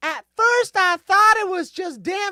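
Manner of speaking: very high-pitched, loud, put-on Southern US accent. Reading a news story aloud, quoting a witness in a southern accent. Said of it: "Why does she sound like she's from the South".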